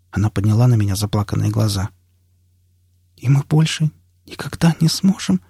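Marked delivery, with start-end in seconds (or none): 3.2-5.4 higher, plaintive woman's question; tearful woman. A narrator's reading. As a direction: ask it pleadingly, pitched up. Заплаканная Настя спрашивает.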